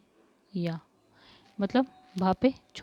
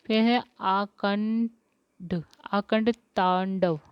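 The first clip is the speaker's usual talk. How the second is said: slow spelling out; much slower than usual. Shown as a demonstration. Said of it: "क्या गलती है".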